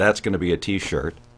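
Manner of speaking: ordinary talk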